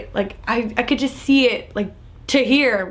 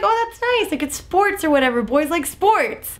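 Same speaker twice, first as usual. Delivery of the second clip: higher, airy mock-naive tone; mock naive viewer; 5 semitones higher than usual. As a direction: play the clueless viewer who sees no problem.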